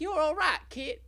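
a squeaky tough-guy ghost; Stretch, the prankster ghost, sizing up the kid. Acted. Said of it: "Wait, no, that's not it".

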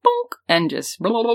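mouthed bowling sound effects; bonk, then a babbled rolling noise; imitated tumbling noises. Acting out someone rolling over, imitated tumbling noises.

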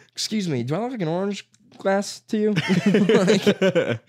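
high, laughing mock indignation; laughing mock outrage. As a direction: play offended through laughter. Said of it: "mocking outrage, laughing".

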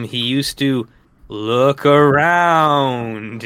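slow, drawn-out spooky storyteller; lightly spooky ghost story voice. Retold or imitated. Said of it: "in a spooky voice".

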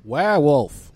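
shouted, howling like a wolf; loud howling werewolf. Retold or imitated. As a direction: call it out like a howl. Quoting werewolf joke, loud.

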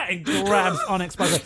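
ordinary delivery

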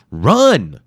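loud urgent cry; croaked run. Acted. Injured hero shouting warning to Wimple. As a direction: warn him off. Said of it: "he croaked".

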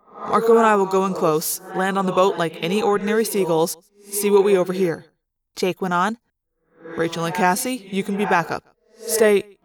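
Jake, businesslike leader. Acted. Jake assigns roles to the team, firm and businesslike. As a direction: lay out the plan firmly and evenly. Voices Jake giving orders.

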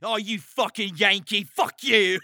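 high, loud mock yell at a Yankee; hammed-up banter shout; mock yelled insult. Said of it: "It's just like".

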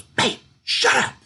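high, whispered hush; a light mock of the wife telling him to hush; imitating wife's hushing. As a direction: hiss it like a wife mid-dance. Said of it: "She goes".

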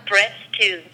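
phone menu voice. Real, not acted. Automated hotel phone menu plays.

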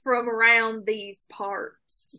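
slow, lightly hammed-up Western drawl; mock Western accent, taken slowly; bad Western accent. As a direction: imitate a badly faked cowboy accent, drawn out. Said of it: "Nate keeps trying to do a Western question mark accent".

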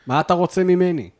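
high, complaining householder voice; imagined domestic griping. Pretend. Friend imagines the man's troubles at home, griping high. Voicing the man nagged at home.

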